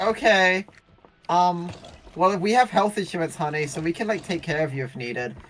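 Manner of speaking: a hint of a fussing mom offering help; ex's mother. Mother offering the bitten guest insurance help, lightly voiced.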